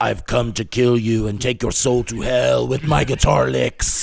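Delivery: mock evil metalhead. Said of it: "mocking evil metal persona".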